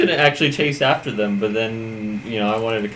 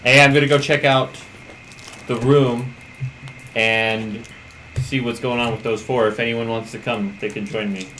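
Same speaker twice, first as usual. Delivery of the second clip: yelling down the hall. Acted. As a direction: call it down a hallway. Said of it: "I'm literally gonna start yelling".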